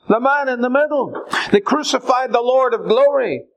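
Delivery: high, pressing preaching; rising fervent sermon; impassioned preaching. Real, not acted. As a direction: raise the pitch to drive it home.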